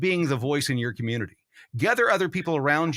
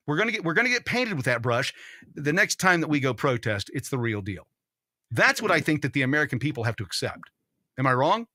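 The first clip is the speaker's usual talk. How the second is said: talking around an ice cube; words slurred by a mouthful of ice; 2 semitones lower than usual. Real, not acted. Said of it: "I got a big old ice cube in my mouth".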